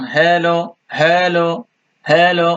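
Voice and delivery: হ্যালো with a lengthened "hay" before "lo"; drawn-out first syllable. Shown as a demonstration. Teacher repeating hello with a slight pull, drawn-out first syllable. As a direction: hold the first vowel of হ্যালো a little. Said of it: "হ্যার পর একটু টান".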